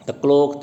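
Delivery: "the clock" as one pair, stress on clock; light "the", punched "clock"; iambic foot. Shown as a demonstration. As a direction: set "the clock" apart as a da-DUM beat. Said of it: "तीसरा".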